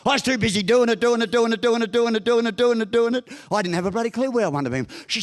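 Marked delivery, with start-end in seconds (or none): 0.0-3.3 raised, relentless repetitive chant; busy rattling. Retold or imitated. Man too busy to think, rattling on monotonously. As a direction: rattle it off on one high note without a break. Mimics being endlessly, frantically busy.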